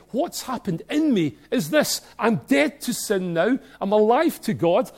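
earnest believer's proclamation; fervent declaration. Retold or imitated. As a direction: declare it like a testimony. Voicing baptized believer's declaration.

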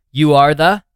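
mock yelled. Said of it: "He would go".

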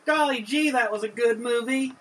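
put-on chipper golly-gee kid voice; wholesome 1950s kid. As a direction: play it like an eager 1950s boy. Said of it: "Good job, Tyler. Your traditional catchphrase".

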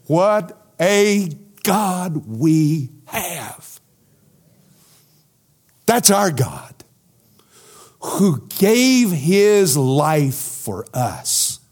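very slow, choked-up praise; real emotion breaking into the preaching; emotional. Real, not acted. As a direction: overcome with feeling as he praises. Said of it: "I'm too emotional".

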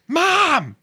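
high, drawn-out call for Mom; hammy high-pitched yell; kid yelling. Acted. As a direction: holler like a demanding kid. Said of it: "the kid is still yelling".

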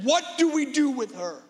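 an angry mob demanding justice; crowd screaming. Acted. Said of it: "screaming, saying".

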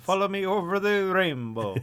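put-on Irish accent. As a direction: play a cheeky Irish leprechaun. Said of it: "Irish accent".

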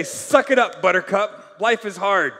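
a hint of a no-sympathy father; tough-love dad. Dad telling his growing kid to toughen up, tough love. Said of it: "my dad used to say to me".

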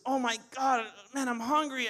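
lightly acted hungry complaint; grumpy. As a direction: imitate someone grumpy with hunger. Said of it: "real grumpy".

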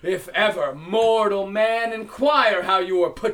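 proud shouted taunt; triumphant boast. Acted. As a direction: boast your name to the giant. Odysseus boasts to Cyclops.

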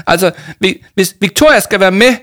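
high, loud, seething threat; furious hiss. A narrator's reading. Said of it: "hvæsede Jama og stampede". (rasende, højt og hvæsende)

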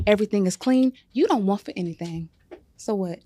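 rising exasperation; scolding wife. Acted. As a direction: let him have it, building. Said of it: "Man, she good".

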